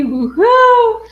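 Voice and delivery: very high, loud whoop; big cheer. Retold or imitated. Host reading a viewer's comment aloud, big cheer.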